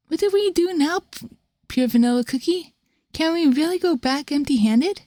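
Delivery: alarmed hero. Acted. Hero confronts villain, alarmed.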